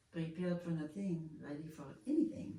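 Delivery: imitating a French teacher's accent; French-accented teacher's motto. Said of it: "when you speak with a French accent".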